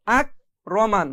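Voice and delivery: slow আক রমান with a plain K, no bounce; normal light K. Shown as a demonstration. Teacher repeats the correct reading, slow, light K in আক. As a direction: slowly close আক on a light K without a push. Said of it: "normal ভাবে পড়তে হবে".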